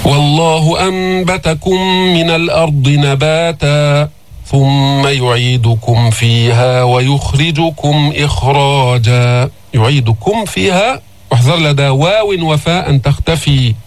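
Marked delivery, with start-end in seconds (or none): 0.0-9.5 slow, measured tajweed recitation; steady melodic Quranic chant. Shown as a demonstration. 9.7-11.0 يعيدكم فيها with the م fully sounded before ف; distinct, unblurred م then فيها; clear meem. Shown as a demonstration. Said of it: "الميم تظهر".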